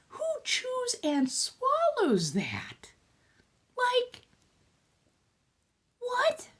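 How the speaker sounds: high, slow whisper of disbelief; hushed what-the reaction; incredulous whisper. Retold or imitated. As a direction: breathe it out in shocked disbelief.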